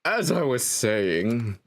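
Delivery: slow narrator at natural pitch, falling. Shown as a demonstration. Narrator resuming the tale for the player, slow narrator voice. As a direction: settle slowly into the narrator's voice. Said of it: "If it's a narrator, I need to give a separate voice".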